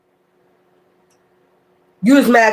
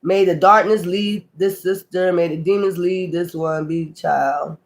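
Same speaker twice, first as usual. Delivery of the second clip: mock incantation; 2 semitones lower than usual. Mimics someone casting a spell.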